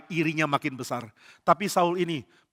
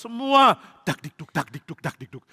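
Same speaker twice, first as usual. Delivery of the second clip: mock pounding heartbeat; heartbeat sound. Palace waiting anxiously, heartbeat imitated. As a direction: tap out a nervous heartbeat. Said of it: "heartbeat sound imitated".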